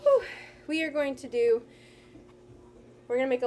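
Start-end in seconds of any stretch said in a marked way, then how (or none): 0.0-0.2 winded exhale, puffing out; breathless whew. Real, not acted. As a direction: blow out a tired whew. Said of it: "I'm out of breath".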